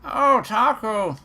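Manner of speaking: high, loud, drawn-out character greeting; calling out a greeting. Acted. Game character hailing Taku, high calling voice. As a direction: sing out the name high and slow.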